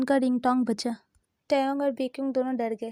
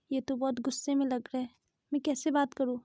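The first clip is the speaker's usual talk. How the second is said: quiet into ear; 6 dB quieter than usual. Acted. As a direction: softly, close to his ear. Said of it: "आस्ते से बेक्योंग के कान में बोला". (कान में धीरे से फुसफुसाकर)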